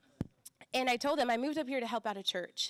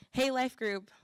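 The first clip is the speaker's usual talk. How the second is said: louder, bright call to the group; peppy greeting; 4 semitones higher, 5 dB louder than usual. Shown as a demonstration. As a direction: call out to the life group with energy. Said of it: "Oh, I should stay talking in this".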